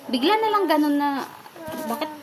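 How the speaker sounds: fighting back tears as it spills out; voice breaking. Real, not acted. Recalling how her friend turned on her, voice breaking. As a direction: pitch rising high and loud as emotion breaks through.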